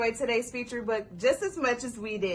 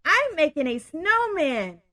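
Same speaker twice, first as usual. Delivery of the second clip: story narration. A narrator's reading. Reads story aloud.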